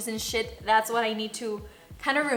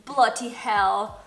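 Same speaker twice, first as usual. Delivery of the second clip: slow, loud mock-British exclamation; imitated British accent; 7 dB louder, much slower than usual. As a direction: draw it out like a British boyfriend. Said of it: "He says, like".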